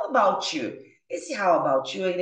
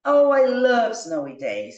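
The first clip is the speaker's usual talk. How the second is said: enthusiastic reply; 2 semitones higher, 6 dB louder than usual. Acted.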